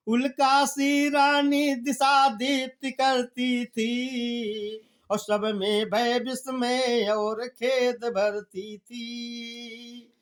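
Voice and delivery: slow, sung-out poem line; slow chanted poetry reading; verse recitation. Acted.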